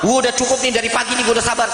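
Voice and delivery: fast, heated mock complaint; fed-up husband. Husband fed up with waiting since morning, fast heated complaint. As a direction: rattle it off like a man at his limit.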